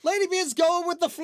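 put-on high, loud cute girl voice; high cute anime girl. Host opens in put-on voice.

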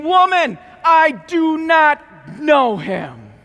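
loud, slow hammered denial; emphatic denial. Acted. Peter denying Jesus to the servant girl, loud emphatic. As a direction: bang out each word of the denial.

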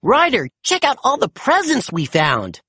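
high, eager character shout; bursting to show Ryder the presents; excited shout. A narrator's reading. Marshall calling Ryder over to the presents, excited shout. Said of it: "Marshall shouted excitedly".

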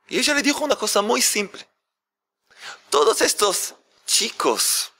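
ordinary talk, nothing marked

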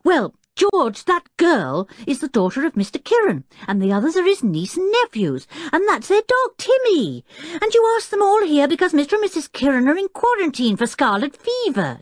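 put-on worked-up boy's insistent rush; excited shouting. A narrator's reading. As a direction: shout the explanation at an exasperating father. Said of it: "shouted Tinker".

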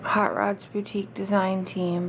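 speaking stiffly through an injured jaw; barely opening the mouth, sore jaw. Real, not acted. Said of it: "if I talk funny, it's because I have a jaw injury".

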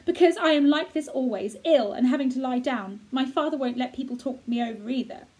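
put-on an invalid boy telling Mary his fate; sickly boy. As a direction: play the boy, fretful and self-pitying. Colin voiced by reader.

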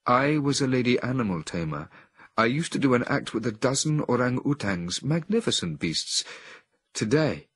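lightly voiced second woman; second woman's voice. A narrator's reading. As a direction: tell her fate simply. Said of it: "Another feminine voice succeeded hers".

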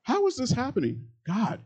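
soaring disbelieving plea; incredulous cry to God. Retold or imitated. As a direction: ask God in high-pitched amazement. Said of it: "and you're going".

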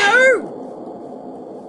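high, loud shriek; terrified scream. Real, not acted. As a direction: scream in sudden fright. Sudden scare in game.

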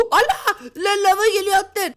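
high, startled half-laughing yelp; shocked. Real, not acted. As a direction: gasp and cry out at the lava. Lava rising, shocked. (alttan gelen lavla şok çığlığı)

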